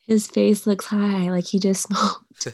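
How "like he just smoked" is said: giggling, breathy whispered word; laughing whisper. Real, not acted. Joking about high-looking plush.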